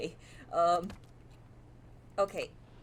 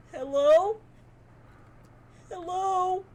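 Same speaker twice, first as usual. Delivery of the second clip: calling out; 10 semitones higher, 11 dB louder, slower than usual. Real, not acted. Calling into the dark phone.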